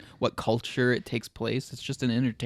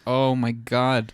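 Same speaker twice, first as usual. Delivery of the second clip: dismayed reaction; much slower than usual. Retold or imitated. Dismayed reaction to coworkers' song choice.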